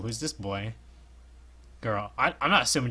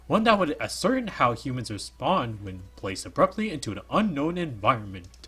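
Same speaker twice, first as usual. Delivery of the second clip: character voice; 3 dB louder than usual. Acted. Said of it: "That's probably a really bad voice".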